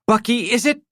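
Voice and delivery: high, pointed question; sizing up the stranger coldly; cold, sharp wife. A narrator's reading. Wife challenging the stranger, cold and sharp. Estelle voiced.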